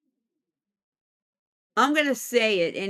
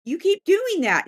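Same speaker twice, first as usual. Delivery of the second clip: higher-pitched mock scolding; scolding spirit; 7 semitones higher than usual. Unseen being scolds its prankster friend, high mock scolding. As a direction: play the fed-up companion. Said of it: "and he goes".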